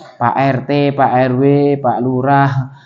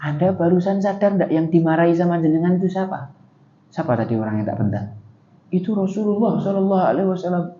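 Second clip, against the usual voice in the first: hushed warning; 9 dB quieter, faster than usual. Acted. Neighbours quietly warning the mother.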